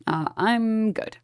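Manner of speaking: slow, sing-song brush-off; drawn-out dismissive. Shown as a demonstration. Brushing off chat about mourning the CEO, slow and unbothered. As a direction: stretch it out, unbothered.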